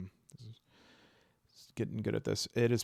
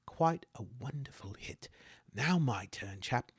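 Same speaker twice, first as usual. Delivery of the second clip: soft, lightly British politeness; a hint of courteous British chap; courteous British accent; 4 dB quieter than usual. Knight Aaron praising a hit before his turn, courteous British. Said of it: "Aaron is courteous".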